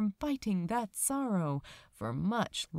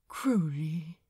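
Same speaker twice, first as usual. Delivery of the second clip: warm greeting; 3 semitones lower than usual. Acted. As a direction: breathe his name gently, glad to see him. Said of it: "Aziraphale smiled warmly".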